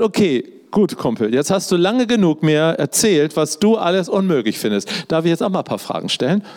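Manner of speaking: casual God. Retold or imitated. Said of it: "hat Gott gesagt".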